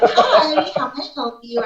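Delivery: high, polite server greeting; customer service voice. Shown as a demonstration. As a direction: switch on a sweet customer-service voice. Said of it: "customer service".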